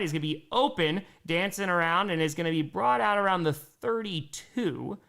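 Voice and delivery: steady play-by-play call, slowed; sports announcer calling the down. Acted. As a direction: call the drive like a broadcaster. Live play-by-play of the game.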